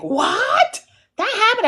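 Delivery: high, startled double question; mock shock. Friend Steph hearing the gossip, high and startled. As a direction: gasp it out, amazed. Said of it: "She's always like".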